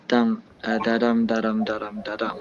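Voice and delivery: "da dum" chanted evenly, stress on each "dum"; iambic beat. Shown as a demonstration. Counting out a poetry meter for friends, "da dum" in iambic beat. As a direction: tap out "da dum" with weak "da", stressed "dum". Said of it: "iambic pentameter is a particular amount".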